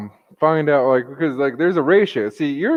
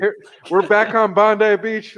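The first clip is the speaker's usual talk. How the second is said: bright, slow weather-report voice; news reporter; 5 semitones higher, 4 dB louder, slower than usual. Pretend. Mock reporter signing on from the beach, slower and higher. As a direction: play the beach weather presenter. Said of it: "giving you the weather report".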